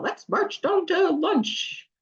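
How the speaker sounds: high, slow, bouncy sing-out; playful marching call. Acted. Adult leading kids when stress is coming, playful.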